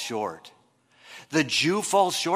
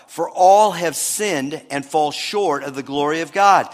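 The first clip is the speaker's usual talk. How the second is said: measured reading of a Bible passage; scripture reading. Acted. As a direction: read the verses aloud to the congregation.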